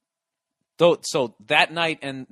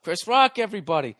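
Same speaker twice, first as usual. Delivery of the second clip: much higher, louder emcee call; emcee shout-out; 5 semitones higher, 6 dB louder than usual. Retold or imitated. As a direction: sell the name to the crowd. Host hyping the crowd.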